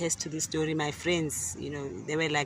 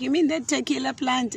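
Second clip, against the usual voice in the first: high, louder incredulous asking; surprised question; 10 semitones higher, 5 dB louder than usual. Retold or imitated. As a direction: act out her amazement at the plant. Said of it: "And she goes like".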